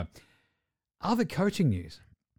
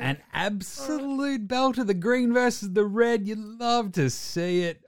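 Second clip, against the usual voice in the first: mock commentator; 8 semitones higher, slower than usual. Mock commentary on uniform matchup.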